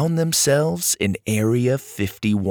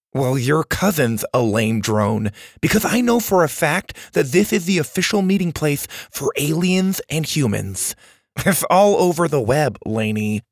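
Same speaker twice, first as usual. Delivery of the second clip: put-on higher-pitched, insistent boy's voice; indignant boy Max; 4 semitones higher than usual. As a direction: argue back in a boyish voice. Max retorts.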